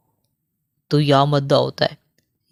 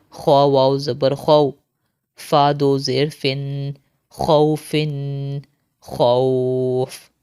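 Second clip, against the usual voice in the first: slow, chanted letter-by-letter spelling; Qaida drill recitation; much slower than usual. Shown as a demonstration. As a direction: spell each syllable out, then join and stop. (قاعدہ کی ہجے والی قراءت)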